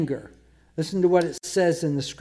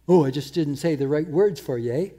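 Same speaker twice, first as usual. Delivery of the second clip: mock excuse. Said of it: "they excuse that and say".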